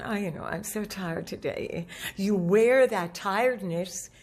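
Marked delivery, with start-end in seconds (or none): 0.0-1.9 low, softer weary voice; tired, dropped voice. Acted. Coach mimicking someone worn out after a cold, tired dropped voice. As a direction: let pitch and volume sag as if tired. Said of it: "the voice goes down".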